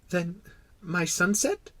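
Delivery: high, small-voiced reminder; insisting little prince. Little prince reminding the king of his wish, insistent. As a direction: press the point in a child's voice. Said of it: "insisted the little prince".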